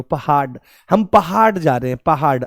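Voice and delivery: "पहाड़" ending in a hard ड stop; mispronounced hard ड. Shown as a demonstration. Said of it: "इसमें पहाड़ क्यों नहीं बोल रहे हो".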